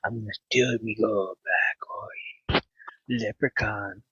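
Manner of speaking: leprechaun voice. Pretend. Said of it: "let me do it again".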